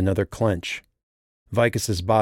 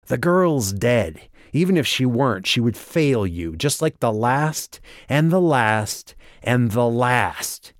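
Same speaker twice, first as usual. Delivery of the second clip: slow, high sneering taunt; 4 semitones higher than usual. A narrator's reading. Walker taunting Vicus about the girl, slow sneer. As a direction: drag it out with raised, mocking scorn. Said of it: "he sneered".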